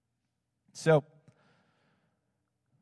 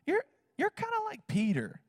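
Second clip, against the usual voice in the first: much higher, lilting lady voice; lightly voiced prophetic woman; gentle mock of the woman prophesying; imitating the prophetess. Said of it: "She's like".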